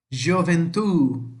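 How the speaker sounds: slow "gioventù", leaning on the final ù; Italian "gioventù", drawn out on the last syllable; final-syllable stress. Shown as a demonstration. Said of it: "Sempre a última sílaba mais forte". ("gioventù" devagar, com a última sílaba forte)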